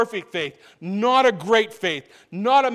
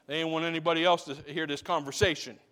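softer, lower, quick confiding aside; hushed aside; 4 semitones lower, 5 dB quieter, faster than usual. Acted. Preacher explaining the disciples' private question, hushed. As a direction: tuck it in low as if sharing a secret.

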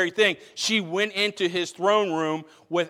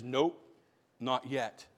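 soft hesitant nope; 6 semitones lower, 9 dB quieter, slower than usual. Retold or imitated. Esther holding back again.

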